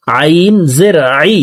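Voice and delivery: আইন and আই from the middle of the throat; throat-made ayn. Shown as a demonstration. Teacher shows the articulation point, আইন pronounced from mid-throat. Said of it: "হলকের মধ্যখান থেকে হবে".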